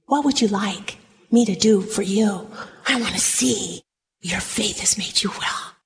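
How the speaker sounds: low, soft, whispered; Jesus whispering gently; gentle whisper. Acted. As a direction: speak tenderly to the healed man.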